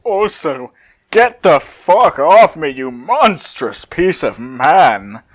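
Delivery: slow, heavy growl of contempt; menacing brute growl, drawn out; growling Broly. Acted. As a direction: look down on him and growl it out slowly. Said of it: "Broly growls as he steps off him".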